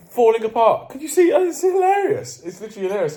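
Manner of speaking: high, loud laughing disbelief; cracking up over his own falling apart; laughing at himself. Real, not acted. Laughs at his own coughing fit.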